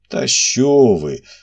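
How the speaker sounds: loud, overjoyed, delighted exclamation. A man responds to talk of staging a performance, exclaiming in delight. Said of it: "у захваті вигукнув пан Блаунд".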